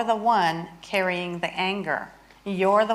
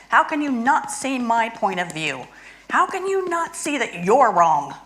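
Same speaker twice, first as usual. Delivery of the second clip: mock anger; 3 semitones higher than usual. Shown as a demonstration. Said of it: "so I'm angry at my husband".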